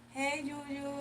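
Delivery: lightly imitated little baby voice; mock a friend's squeaky greeting; high-pitched baby voice. Streamer mimics how Nicole sounds, mock baby voice. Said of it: "You sound like a baby".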